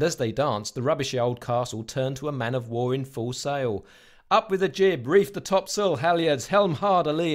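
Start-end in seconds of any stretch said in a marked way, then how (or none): 4.3-7.3 higher, louder sea-captain orders; roaring captain. Acted. Captain ordering his crew against the pirate, a hammed-up roar. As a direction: bellow it across the deck, half-hammed. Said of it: "roared the captain".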